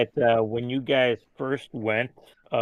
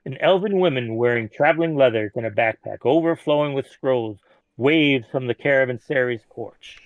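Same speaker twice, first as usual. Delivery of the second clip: even storyteller read; scene narration. A narrator's reading. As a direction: set the scene for the players. GM reads scene description.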